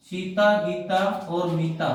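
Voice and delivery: slow list, "Sita", "Gita और मीता" each set apart; short comma pauses. Shown as a demonstration. Teacher demonstrating commas between names, slowly spacing "Sita, Gita और मीता". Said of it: "अलग विराम जो होता है बिल्कुल बीच में छोटा".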